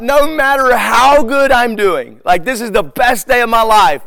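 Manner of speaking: loud, high, drawn-out protest; stretched-out, indignant comic rant; exasperated outburst. Retold or imitated. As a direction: raise voice and pitch in mock disbelief. Exasperated reaction to one-upping reply.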